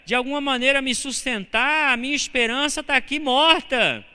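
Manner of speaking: high, slow pleading of a grieving widow; widow's despair. Acted. Grieving widow answering Jesus, high and pleading. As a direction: cry out like a widow who lost everything.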